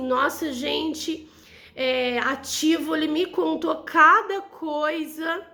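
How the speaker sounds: slow, drawn-out gossip tone; gossipy exclamation. Shown as a demonstration. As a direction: savor it like juicy gossip. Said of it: "Quando eu falo assim". (fofoca arrastada e lenta)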